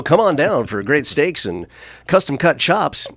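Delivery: lightly voiced commercial announcer. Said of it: "put on my announcer voice".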